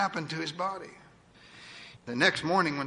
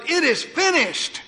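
much higher, louder, slow shout of triumph; triumphant shout; 9 semitones higher, 4 dB louder, slower than usual. Acted. Jesus on the cross declaring victory, loud triumphant shout. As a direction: ring it out in victory, slow and high. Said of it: "he shouted".

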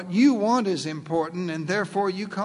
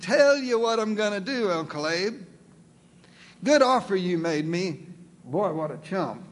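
greedy Lot. Acted. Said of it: "little dollar signs flipped up in Lot's eyes".

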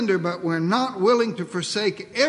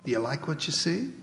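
softly voiced, not fully whispered; a quiet, gentle offer in someone's ear; lightly acted confiding murmur; 6 dB quieter than usual. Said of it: "leans over your shoulder and whispers".

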